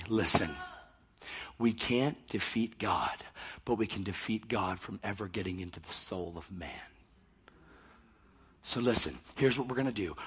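low, hushed scheming; acted secret briefing; conspiratorial huddle. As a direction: lay out the plan softly to your team. Satan's hushed huddle with demons.

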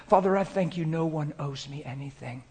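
soft, conversational prayer; private prayer. Shown as a demonstration. Preacher shows how he thanks his Father alone, quiet private prayer. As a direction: talk quietly to God as if alone. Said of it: "Here's how it sounds like when I'm alone".

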